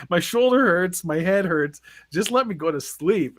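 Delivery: imitating a fed-up, pleading complaint; mildly exasperated mock protest; retold anger. Sore, tired teen begs watchers for sleep, mildly mad. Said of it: "'cause I was really mad".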